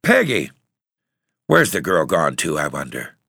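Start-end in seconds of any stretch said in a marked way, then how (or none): 0.0-0.5 put-on high-pitched call for a child. A narrator's reading. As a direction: call out for your missing daughter. Mother calling for her daughter.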